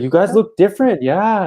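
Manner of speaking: put-on high, fast, loud drunk chatter; drunk fan voice. Drunk fan telling the band they look older. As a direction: blurt it like a hammered fan.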